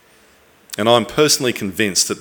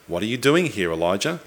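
softer, gently inviting question; gracious question; 5 dB quieter, faster than usual. Acted. God inviting Elijah to voice his complaint, gracious. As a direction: ask it softly, as an invitation. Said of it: "the question's a gracious one".

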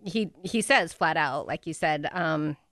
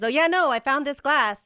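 mock casual; 6 semitones higher, 4 dB louder than usual. Mocking Harry's casual excuse.

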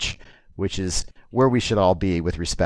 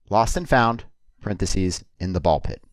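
poem title. Acted. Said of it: "I'm gonna do a poem".

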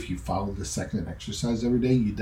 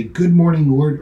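bright, eager and louder morning greeting to God; cheerful greeting; 5 semitones higher, 8 dB louder than usual. Shown as a demonstration. Preacher's happy start to the day, bright and eager. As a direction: welcome the day gladly. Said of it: "Same words, different meaning".

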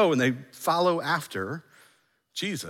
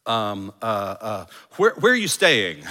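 clueless disciples; 4 semitones lower, slower than usual. Pretend. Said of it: "I love their response".

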